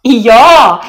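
loud, high, gleeful yes; laughing cheer. A narrator's reading. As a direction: agree with loud delight. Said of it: "ler Arad". (lystig, høyt ja)

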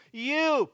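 a high, pointed You; single out the listener with a high You; emphatic You. Retold or imitated. Preacher voicing Jesus singling out Peter, emphatic You. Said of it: "is written emphatically".

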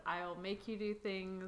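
imitating his suggestive line, slow; slow it down, mock innuendo; suggestive man's tone. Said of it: "that tone of".

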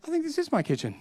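wife's hushed, high gasp of recognition; wonderstruck wife. Retold or imitated. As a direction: float it up in quiet amazement. Wife recognising her dream kitchen.

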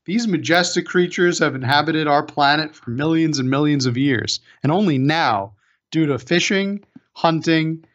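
grave documentary narration; nature documentary. Pretend. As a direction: narrate it like a wildlife film. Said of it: "a P S A".

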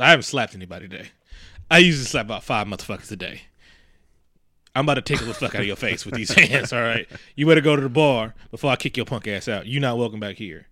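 low, level tough-guy threat; badass Rick. Rick warning a German officer off the back room, mock menacing and low.

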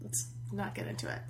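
hushed whispered aside; whispering. Real, not acted. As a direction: whisper it like a secret. Aside about crude word.

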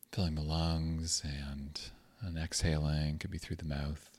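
calm, unhurried meditation guidance with long pauses; guided meditation. Acted. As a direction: gently guide listeners into grounding, leaving space between phrases.

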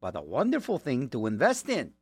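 lightly voiced goofy cartoon moose; a hint of Bullwinkle reading a slogan; Bullwinkle imitation. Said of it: "That was my Bullwinkle imitation".

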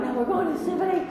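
strained insistence. Retold or imitated. Repeats insistence, higher, breathless.

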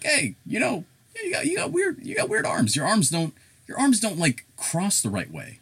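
high-pitched mock stranger; squeaky mocking voice for a tactless critic; rude stranger. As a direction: imitate a nitpicking stranger way up high. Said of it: "will just be rude as fuck to me".

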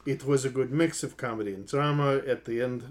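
put-on tentative Afrikaans accent, understated. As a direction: read it out trying an Afrikaans accent. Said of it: "is the Afrikaans".

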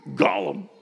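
whispered, throaty "Gollum" with no voice; a husky, unvoiced Gollum cough; Gollum imitation. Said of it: "your name was Dirty Cough".

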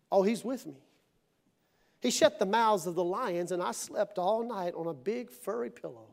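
low, easy, untroubled reply; unworried answer. Acted. Daniel telling how he slept among the lions, unworried. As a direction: answer softly as if all is well.

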